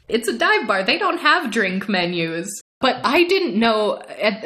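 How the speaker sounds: ordinary talk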